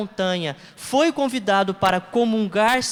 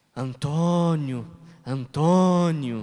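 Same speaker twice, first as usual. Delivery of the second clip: very low, godlike calling voice; 7 semitones lower than usual. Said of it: "imitando a voz de Deus".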